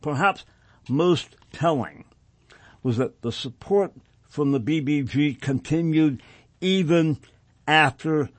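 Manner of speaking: deliberate reading in measured phrases; formal document read-aloud. Acted. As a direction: read the report out firmly, phrase by phrase. Rereads passage aloud on air.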